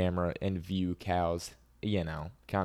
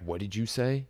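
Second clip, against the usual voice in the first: a confrontational "What did you say?" with a hard edge; intimidating challenge; 3 semitones higher than usual. Shown as a demonstration. To a rude stranger, a confrontational comeback. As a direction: square up and demand it back. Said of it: "not like trying to intimidate 'em".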